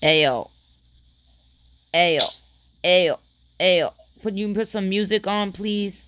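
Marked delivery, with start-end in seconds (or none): 0.0-3.9 calling out. Real, not acted. Calling out to get attention.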